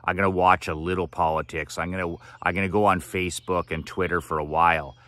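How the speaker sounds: fast, offhand, like it's no big deal; quick flippant mock rationalizing; mock casual excuse. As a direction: toss off a breezy self-excuse at speed. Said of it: "you just don't say".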